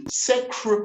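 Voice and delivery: secretary high, repeating the 'kruh'; R demonstration. Shown as a demonstration. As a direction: hammer the R in secretary, SEK-ruh, kruh, tree. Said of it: "The approximate r".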